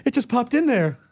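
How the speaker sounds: lightly voiced sheepish movie scientist; a hint of an apologetic Ghostbuster; Ray Stantz. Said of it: "it's Ray Stantz from Ghostbusters".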